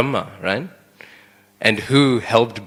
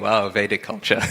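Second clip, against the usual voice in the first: wry amused. Real, not acted. Amused remark on child's insult.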